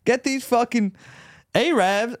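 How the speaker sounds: high-pitched mock Southern rant; hammed-up Southern twang; southern accent. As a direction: put on a ranting Southern yokel. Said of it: "I can do a southern accent".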